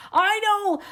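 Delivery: emphatic, high agreement; high, loud "I know!". Real, not acted. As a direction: concede loudly to a viewer. Answering a viewer's advice.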